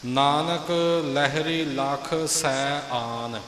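ਸੈ and ਆਨ said apart, slow, with a gap between; teacher spells out ਸੈ ਆਨ as two words; separate words. Shown as a demonstration. ਗੁਰੂ ਵਿਦਿਆਰਥੀ ਨੂੰ ਸੈ ਆਨ ਵੱਖਰਾ ਕਰਕੇ ਦੱਸਦਾ ਹੈ. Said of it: "ਸੈ ਅਤੇ ਆਨ ਵੱਖਰਾ ਵੱਖਰਾ ਹੈ".

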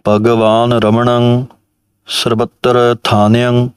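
measured recitation. Shown as a demonstration. Reciting line.

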